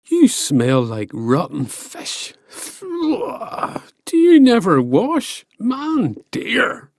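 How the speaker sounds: high, cheeky jeering voice; mock a faraway rival; taunting giant Finn.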